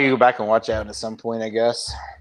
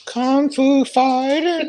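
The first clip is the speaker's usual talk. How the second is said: mock movie announcer; 12 semitones higher, much slower than usual. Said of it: "movie title call".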